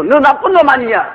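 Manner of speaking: high call bouncing back; echoed accusation. Acted. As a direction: parrot the insult like an echo. Echo repeats the insult.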